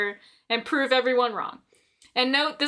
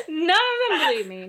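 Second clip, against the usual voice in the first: ordinary delivery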